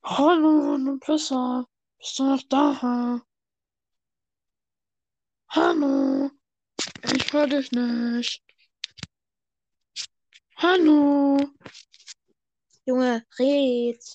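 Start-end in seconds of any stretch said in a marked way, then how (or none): 0.0-11.4 louder, calling out into the headset; to someone hard of hearing. Real, not acted. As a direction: call out so they finally hear you. Calling to silent friend.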